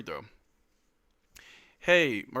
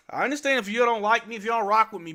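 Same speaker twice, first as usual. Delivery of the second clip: pleading hype; 7 semitones higher, 6 dB louder than usual. Real, not acted. Begging chat for likes.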